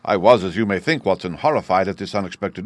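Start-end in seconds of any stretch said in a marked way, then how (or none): none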